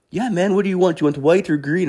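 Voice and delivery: high, eager imitated vendor; pushy high-voiced dealer impression; beach hustler. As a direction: pitch wares in a high put-on voice. Beach dealer taking an order.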